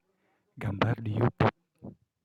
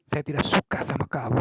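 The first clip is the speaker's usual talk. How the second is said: mock anger; 3 semitones higher, 4 dB louder than usual. Shown as a demonstration. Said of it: "kita marah, pasti kan kita akan membentak".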